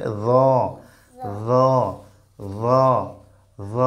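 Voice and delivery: জ said softly, tongue tip touching the front teeth; a soft, lisped জ on the tooth tips; soft articulation. Shown as a demonstration. Teacher asks pupil to copy, soft articulation. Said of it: "নরম করে উচ্চারণ করতে হবে".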